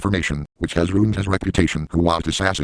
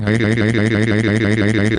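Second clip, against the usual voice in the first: heavy breathing; 4 dB louder than usual. Retold or imitated. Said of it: "then you breathing heavy when you said it".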